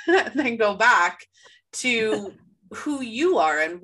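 laughing through the hiccups. Real, not acted. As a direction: giggle your way back in. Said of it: "So I have the hiccups".

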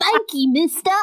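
high, piping urchin voice; street urchin voice. Retold or imitated. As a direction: squeak it out like a ragged orphan. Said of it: "my terrible street urchin voice".

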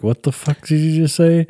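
acted-out incredulous question; imitated baffled listener. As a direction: ask it as a confused listener. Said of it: "they look at you like".

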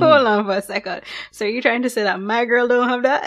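laughing, defensive challenge. Retold or imitated. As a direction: push back, half-joking. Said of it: "So I got a little defensive".

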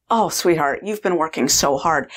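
tender, soothing sympathy; comforting. Retold or imitated. Woman comforting her worn-out food manager, tenderly. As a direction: soothe her gently, a little low. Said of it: "I comforted this food manager".

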